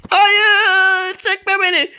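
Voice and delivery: drawn-out mock cry. Dragged away by dragon.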